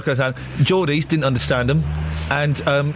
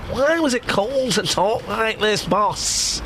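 mock Manchester accent; 3 semitones higher, slower than usual.

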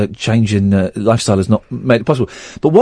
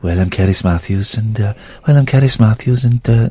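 attempted presenter impression, somewhat low; Kerris Matthews; 4 semitones lower than usual. Host showing off an impression to co-host, lightly voiced presenter. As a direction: try on a Welsh radio host's voice. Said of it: "I can do Kerris Matthews' voice".

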